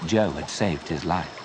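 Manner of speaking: ordinary delivery, nothing marked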